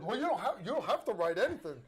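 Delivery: chuckling reassurance with a laugh in it; laughing as he reassures a flustered sergeant. Retold or imitated. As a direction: laugh through it, kind and amused. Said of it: "And he goes".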